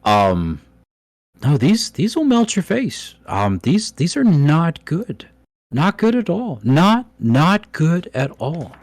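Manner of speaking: a worried little dwarf stammering out warnings; nervous dwarf NPC. Acted. DM voices dwarf Daslin.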